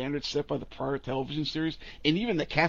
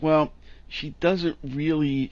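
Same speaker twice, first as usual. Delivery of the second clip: usual speaking voice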